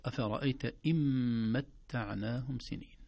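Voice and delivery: slow chanted tajweed reading; measured Quran recitation; Quranic recitation. Shown as a demonstration. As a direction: recite the verse slowly with ikhfa on إن. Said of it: "إذن".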